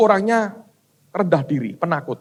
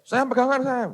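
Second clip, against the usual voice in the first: retold warning yell; 7 semitones higher than usual. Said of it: "saya yang teriak-teriak".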